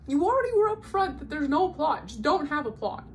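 high, loud mock exasperation; exasperated rant. Reader complaining to the novella about its plot, exasperated. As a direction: scold the book for breaking its promise. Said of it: "And I'm like".

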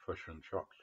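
fish and chops, fish as foosh with a Kiwi vowel; mock Kiwi fish and chops; Kiwi accent. Shown as a demonstration. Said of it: "like we say".

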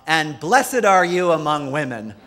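imitated jubilant shout, lightly done; retold shout. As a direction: call it out like a sister across the room. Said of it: "jumped up and shouted out".

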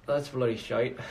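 a light mock Irish "That's bloody shite"; half-hearted Irish imitation; mock Irish accent. Vlogger doing an Irish phrase for fans, light mock Irish. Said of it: "The Irish accent is".

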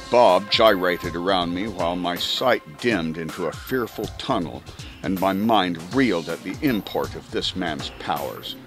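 ordinary delivery, nothing marked

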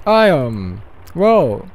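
put-on loud, hesitant Russian-accented character voice. Leos introduces himself to a stranger, Russian accent. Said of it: "I'm doing a Russian accent".

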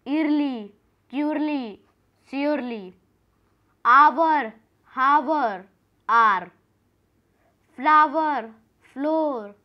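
each word called out loud and clear; loud reading aloud. Shown as a demonstration. Teacher calling out a word list to pupils, loudly. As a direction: call the words out loud to the class. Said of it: "अब आपको चिल्ला चिल्ला के बोलना है".

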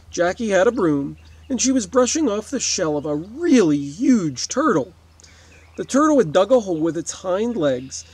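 lively storybook reading; story read aloud. A narrator's reading. Teacher reading a neighbor story to kids, storybook voice. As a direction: tell it like a children's story, animated.

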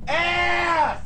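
put-on drunken shouting curses; belligerent drunk. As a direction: yell like a mean drunk. Drunk cursing fit.

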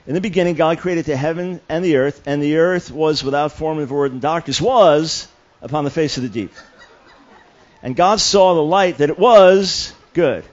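punching the italic words while reading Genesis aloud; hammered-up emphatic King James reading; reading with emphasis. Shown as a demonstration. Young believer stressing the italics as emphasis. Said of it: "it's emphasis".

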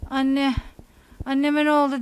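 a mild mock yell of a scared girl calling for her mother; imitating a daughter's frightened cry; retold child's cry. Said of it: "diye bağırınca".

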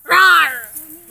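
dinosaur voice. Pretend. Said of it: "do a weird thing".

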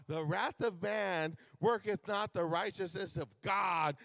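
slow, savoured repetition of the verse; scripture reading. Acted. Preacher repeating the verse to congregation, slow. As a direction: let the verse sink in slowly.

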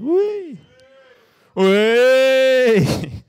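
high, loud gleeful wheee; mock celebration. Palace fan celebrating his team's slide, gleeful high squeal.

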